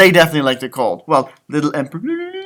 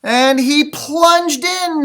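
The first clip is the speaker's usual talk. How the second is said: dramatic; 9 semitones higher, 4 dB louder, much slower than usual. A narrator's reading. Dramatic story moment.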